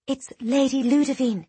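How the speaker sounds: high, hushed gossip; whispered. A narrator's reading. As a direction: confide the news in a stage whisper. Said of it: "a young acolyte whispered to her companion".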